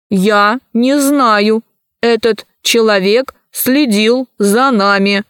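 slow, emotionless robot voice. Acted. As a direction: speak like an unfeeling machine. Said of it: "голоса их никаких чувств не выражали". (медленный голос робота без чувств)

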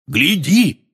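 high, eager call. A narrator's reading. Hagrid getting the giant to look down, calling. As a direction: call up to make him look.

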